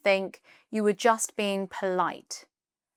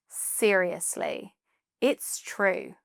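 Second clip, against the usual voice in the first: slower, gently firm insistence; firm but kind; slower than usual. Shown as a demonstration. Teacher showing a firmer way to defend a compliment, firm but kind. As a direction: insist kindly, without pushing. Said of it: "something a bit firmer, but still kind".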